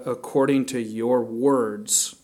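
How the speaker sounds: "according to your words" slow and deliberate; stress on "according to your words". Shown as a demonstration. Preacher quotes Jeremiah's promise, "according to your words" emphasized. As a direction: weigh out each word of "according to your words". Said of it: "I'm emphasizing that".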